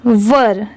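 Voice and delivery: वर as one short falling "vur"; corrected pronunciation. Shown as a demonstration. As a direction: repeat were as वर, without the "air" glide. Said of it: "इसकी correct pronunciation है". (were को गिरते सुर में वर पढ़ें)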